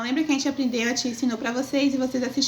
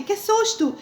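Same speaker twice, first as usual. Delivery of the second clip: startled exclamation; 7 semitones higher, slower than usual. Shown as a demonstration. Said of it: "Quando a gente fala assim".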